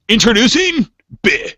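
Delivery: high, booming ring announcer intro; fighting game announcer. Shown as a demonstration. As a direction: hype up the name like a fight intro. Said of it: "I'm gonna do it in the announcer voice".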